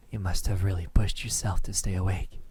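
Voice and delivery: hushed fond whisper; tender whisper over a sleeper. Acted. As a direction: whisper so you don't wake them. Lover notices listener falling asleep.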